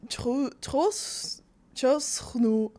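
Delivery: halting attempt at Bulgarian with a French accent. Shown as a demonstration. Guest tries to trick host guessing languages, halting French accent. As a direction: stumble slowly through a mock French accent. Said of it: "I'll just stick to French".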